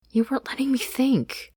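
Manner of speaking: high, insistent Anne voice; Anne arguing. Acted. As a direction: press the point as the younger friend. Anne's voice, arguing.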